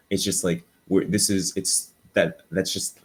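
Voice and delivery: halting false starts; tripping over the start of each phrase; stuttering. Real, not acted. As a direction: keep restarting the sentence, stuck for words. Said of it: "I'm stuttering super hard".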